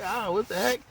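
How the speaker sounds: playing Ray as diamonds hit his chest, suddenly surprised; startled surprise. Ray hit by scattered diamonds, yelps in surprise. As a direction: pitch jumps up high on a startled "what the heck". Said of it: "you like".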